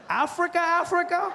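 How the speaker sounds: very high, rising question; imitated disbelief. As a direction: squeak it back in mock astonishment. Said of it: "He's like".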